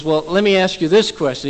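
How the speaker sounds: mildly exasperated retold question; a little frustrated. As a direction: try asking with slight impatience. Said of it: "He's a little frustrated at this point".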